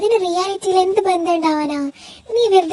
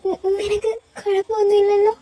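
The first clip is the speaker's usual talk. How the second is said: tearful. Acted. Tearful asking if he's okay.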